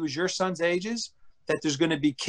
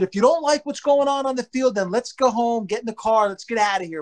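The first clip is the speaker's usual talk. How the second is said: raised-pitch scolding, easing off; half-strength re-enacted yelling; retold scream; 4 semitones higher than usual. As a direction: lay down an ultimatum to a son. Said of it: "But I screamed it".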